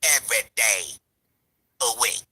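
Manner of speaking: mocking rival's plea. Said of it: "I'ma bring my black ass back to y'all".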